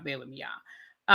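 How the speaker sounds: slow, stretched, rising at the end; slow, low, drawn-out bear with me; drawn-out plea. Real, not acted. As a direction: drag it out pleadingly. Repeating plea to viewers.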